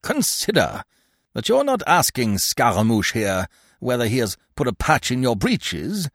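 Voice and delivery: high, impassioned scolding; exasperated director's rebuke; contemptuous. A narrator's reading. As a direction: lecture the bad actor with scorn, rising in pitch. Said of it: "he bade him contemptuously".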